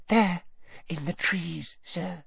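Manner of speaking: fading timid elf. A narrator's reading. Elf fearfully points out the trees. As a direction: trail off in fear.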